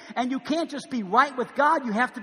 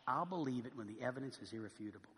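quiet scornful repeat; 9 semitones lower, 16 dB quieter than usual. Retold or imitated. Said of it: "How pharisaical, how unlike Jesus, how harsh".

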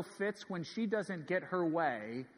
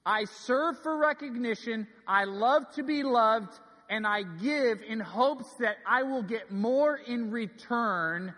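raised, forceful preacher's admission; emphatic confession; 5 semitones higher, 4 dB louder than usual. Real, not acted. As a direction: drive each phrase higher and harder.

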